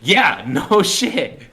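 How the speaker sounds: very slow loud no shit; mock dry agreement, slow; drawn-out sarcasm. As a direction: drag it out sarcastically. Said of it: "we're like".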